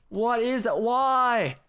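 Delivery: high, drawn-out wail; despairing. Real, not acted. Player with no food after falling, despairing wail. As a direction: plead upward in frustration.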